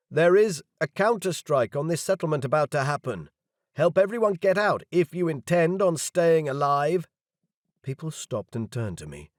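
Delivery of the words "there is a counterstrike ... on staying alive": urgent warning. A narrator's reading. Warning crowd of counterstrike.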